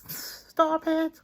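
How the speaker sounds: high laughing cry. Real, not acted. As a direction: laugh through the tears. Laughing at her own tears.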